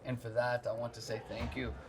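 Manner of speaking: mock Scottish accent that leans Jamaican; Scottish drifting Jamaican. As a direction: imitate a Scot, slipping into Jamaican. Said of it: "I'm drifting into Jamaican".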